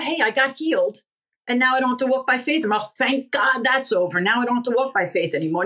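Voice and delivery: fast, breezy mock relief; mock careless believer. Preacher mocking believers who quit walking by faith, breezy. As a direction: toss it off like someone glad it's done.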